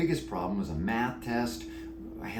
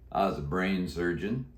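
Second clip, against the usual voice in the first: deep croaky voice. Acted. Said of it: "He answered in a deep, croaky voice".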